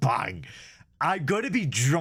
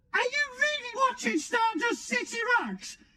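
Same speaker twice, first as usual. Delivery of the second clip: very high, modulated voice-changer voice. The speaker sets a voice modulator to high pitch, then asks a question: high-pitched modulator voice. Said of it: "high pitch".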